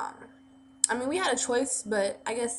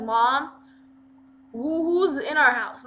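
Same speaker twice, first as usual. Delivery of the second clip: a hint of a brother calling, slightly raised; lightly voiced brother, calling with some force; 4 semitones higher, 7 dB louder, slower than usual. Brother asking Mom who is inside, lightly raised call. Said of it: "he's just like".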